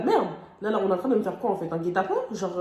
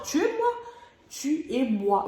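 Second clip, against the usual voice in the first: dramatic despair; 5 semitones higher, much slower than usual. Retold or imitated. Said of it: "dans ma tête, c'était tuez-moi".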